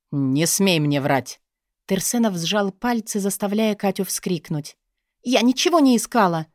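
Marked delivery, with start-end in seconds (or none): 0.1-1.4 low, slow menacing order; threatening warning. Acted. Boss gripping Katya's shoulder, slow low threat. 5.2-6.5 higher, louder indignant protest. Acted. Katya protesting to her boss, higher indignant cry. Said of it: "возмутилась Катерина".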